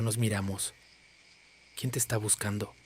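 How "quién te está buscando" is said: put-on gentle, hushed question to a frightened child; a soft, careful wife's question; softly. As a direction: ask it softly, coaxing the girl. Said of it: "preguntó mi esposa suavemente".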